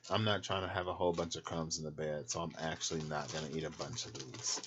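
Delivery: talking while chewing; words round a mouthful of crackers; mouth full. Real, not acted. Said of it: "talk with my mouth full".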